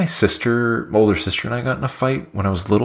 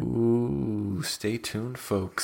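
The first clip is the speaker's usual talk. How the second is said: whisper; 8 dB quieter, much slower than usual. Acted. Teasing a secret.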